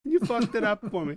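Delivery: high, loud outraged yell; furious monster. Retold or imitated. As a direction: roar out the wounded pride. Monster keeps scolding the kid.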